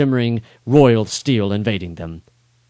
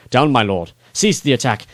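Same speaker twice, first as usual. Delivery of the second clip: urgent shout; 2 semitones higher, 3 dB louder than usual. Acted. Narrator rushes in shouting.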